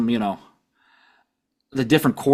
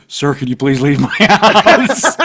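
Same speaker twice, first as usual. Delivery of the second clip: polite plea; 6 dB louder, slower than usual. Pretend. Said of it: "I'd get on the intercom and be like".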